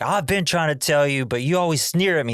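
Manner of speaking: lightly acted family squabble; mock exasperation. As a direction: imitate a frustrated son protesting. Acted quarrel, son to mother.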